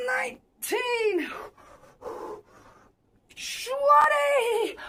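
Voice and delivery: high, drawn-out effort on the count; straining on last reps. Real, not acted. Streamer counting final hammer lifts, straining hard. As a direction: push the number out under strain.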